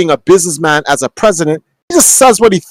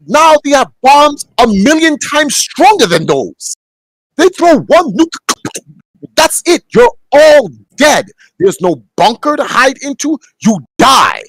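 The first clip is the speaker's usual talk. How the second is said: agitated rant; 9 semitones higher than usual. Real, not acted. Ranting about nuclear bombs.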